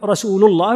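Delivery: "رسول" ending in u, "rasuulu-llah"; correct damma. Shown as a demonstration. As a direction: link "رسول" to "الله" with "lu". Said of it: "لا يعجز عن أن يقول". (ضمّ لام «رسول»)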